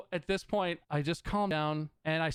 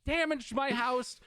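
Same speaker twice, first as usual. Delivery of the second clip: laughing fury; 8 semitones higher, 5 dB louder than usual. Real, not acted. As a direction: spit it out in furious disbelief.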